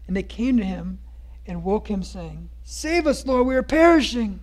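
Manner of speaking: dramatic scripture reading. Acted. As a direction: read the storm passage like a preacher. Reads Matthew passage aloud.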